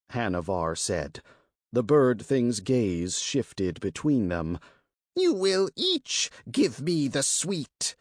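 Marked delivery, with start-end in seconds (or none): 5.1-7.9 rasping creature. Acted. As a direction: rasp it out like a greedy bird beast. Monster bargains for wine.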